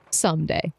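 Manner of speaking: "Someday" set apart and weighted; stress on SOMEDAY. Acted. Snow hedges about wearing her hair down, stressing "Someday". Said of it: "Emphasis on someday".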